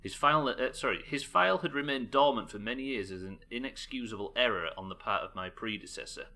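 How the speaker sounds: measured, formal document reading; dossier read-aloud. Acted. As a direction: read out an intelligence report.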